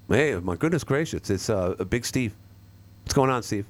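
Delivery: hollow echoing mic sound; cave echo. Real, not acted. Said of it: "Are you in a cave?".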